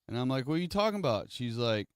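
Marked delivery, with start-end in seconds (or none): 0.5-1.3 high, incredulous squeak; can't believe what mom just said; disbelief. Retold or imitated. Son to mom after puking, high incredulous disbelief.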